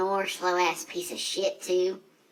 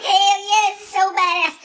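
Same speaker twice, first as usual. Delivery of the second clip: high, loud thrilled yell of joy; hollering with glee off the line; excited whoop; 8 dB louder than usual. Retold or imitated. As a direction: whoop it out like you're winning the race. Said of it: "I'm like".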